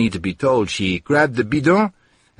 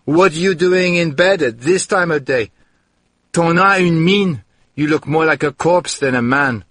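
alarmed scolding; 6 semitones higher, 3 dB louder than usual. Acted. Maria scolding the starving man.

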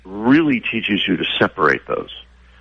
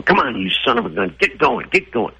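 mock angry urging; 10 semitones higher than usual. Imitating rider getting mad at horse.

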